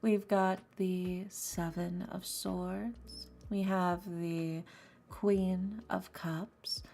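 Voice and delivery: slow, hammed-up seductive tarot reading; fake sexy voice. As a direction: lay on the fake sultry voice slowly. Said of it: "start putting on the fake sexy voice".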